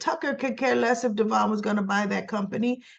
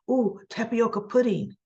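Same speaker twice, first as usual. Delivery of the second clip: delighted; 3 semitones higher than usual. Retold or imitated. Tucker delighted by pudding.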